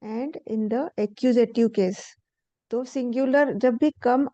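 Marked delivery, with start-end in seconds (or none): 0.0-2.0 slow textbook read-aloud. Shown as a demonstration. Reads textbook rule aloud.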